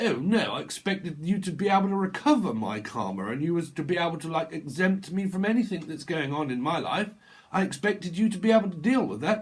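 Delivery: lightly hammed-up grievance; complaining. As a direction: act out an indignant complaint. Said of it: "people that complain".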